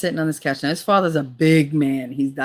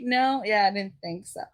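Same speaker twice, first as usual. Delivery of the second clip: mock sweet dismissal, higher pitched; catty put-down; 5 semitones higher than usual. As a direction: deliver a retold dig with false politeness. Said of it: "just the cattiness back and forth".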